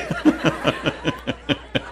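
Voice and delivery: rapid, breath-only laugh; real laughter. Real, not acted. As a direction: chuckle at the audience's reaction. Laughs at audience reaction.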